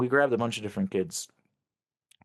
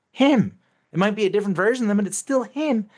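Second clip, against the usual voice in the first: raised, emphatic outrage; outraged; 9 semitones higher, 5 dB louder than usual. Real, not acted. Indignant telling of alter's crimes, raised outrage. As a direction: insist it is him, voice rising.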